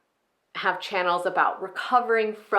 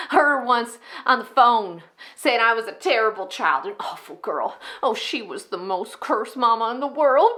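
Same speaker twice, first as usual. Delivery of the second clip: raised, sarcastic sing-song complaint; bitter mockery; 3 semitones higher, 3 dB louder than usual. Enid recalls Mama complaining about her, bitterly mocking. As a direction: parrot Mama's grievance with scorn.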